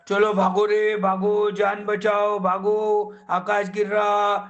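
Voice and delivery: alarmed rabbit calling everyone to run; panicked shouting. Acted. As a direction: yell like a scared rabbit fleeing the falling sky. Rabbit panics, sky falling.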